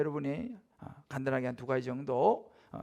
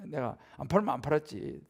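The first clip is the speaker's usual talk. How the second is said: ordinary delivery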